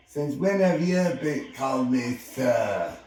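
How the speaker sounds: indignant gruff giant. Acted. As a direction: challenge him, taken aback. Hagrid indignant in a quarrel.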